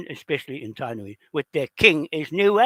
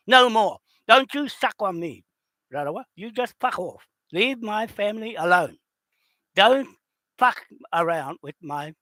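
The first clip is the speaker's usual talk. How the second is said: furious scolding, pitched up; angry warning; 4 semitones higher than usual. Real, not acted. Telling off an enemy.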